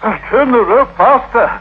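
breathless excited calls. Acted. Suitor jumping rope for the girl, excited shouting.

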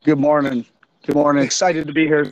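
hoarse, worn-out raspy voice. Real, not acted. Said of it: "Sorry about my raspy voice".

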